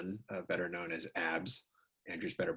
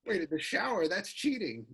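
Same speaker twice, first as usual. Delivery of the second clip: higher and louder, amazed; stunned, half laughing protest; real disbelief; 9 semitones higher, 6 dB louder than usual. Real, not acted. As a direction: blurt it out in shocked surprise. Host reacts to the story.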